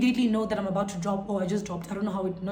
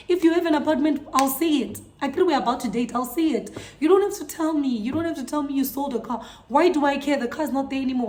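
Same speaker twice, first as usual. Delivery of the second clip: higher, emphatic rant at show-offs; exasperated scolding; 3 semitones higher than usual. Acted. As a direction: tell off a boaster, fed up and insistent. Scolding boasting boys.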